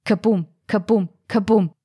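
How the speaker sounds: thumping drumbeat chant, beat by beat; a pounding percussion solo; drumming heartbeat. A narrator's reading. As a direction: knock the beats out like a drum. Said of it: "lautes Percussion-Solo".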